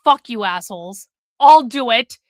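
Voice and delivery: imitating old Sub. Streamer mimics old Sub stepping up for the chat, low mock-grudging voice. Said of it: "Old Sub is like".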